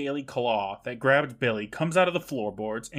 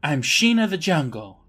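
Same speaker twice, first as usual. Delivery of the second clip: louder, higher proclamation; mock heroic declaration; 4 semitones higher, 5 dB louder than usual. Host as Sheena grabbing a stick, mock heroic declaration. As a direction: announce it like a would-be jungle heroine. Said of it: "and says".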